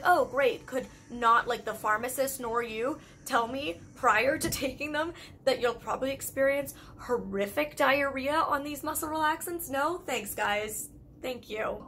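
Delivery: mock outrage at the pharmacist, then flat thanks; sarcastic complaint.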